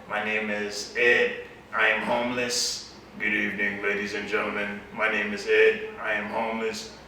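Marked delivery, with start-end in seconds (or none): 3.2-7.0 a bit deeper. Retold or imitated. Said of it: "and deeper".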